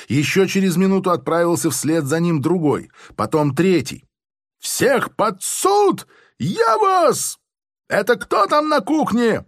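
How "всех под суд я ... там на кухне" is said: very high, slow furious squeal; shrieking major. A narrator's reading. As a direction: squeal it out like an enraged officer. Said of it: "взвизгнул он". (взвизгивает в бешенстве, очень высоко)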